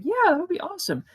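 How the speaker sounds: high, fast breezy reply; quick girl voice. Retold or imitated. The girl agreeing casually, high and fast.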